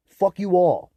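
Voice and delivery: real furious yell; angry curse. Real, not acted. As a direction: hurl it at them. Cursing at harassers.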